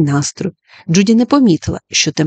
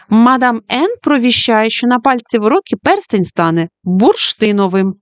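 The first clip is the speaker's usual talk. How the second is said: fortune-teller announcement; 4 semitones higher than usual. Acted. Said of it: "оголосила Джуді".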